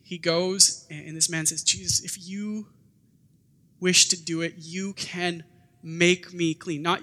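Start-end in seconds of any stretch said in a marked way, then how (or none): 1.6-6.8 yearning plea. Retold or imitated. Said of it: "You hear the yearning in his voice".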